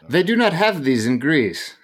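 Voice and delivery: imitating Greek friend. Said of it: "You're very good at that".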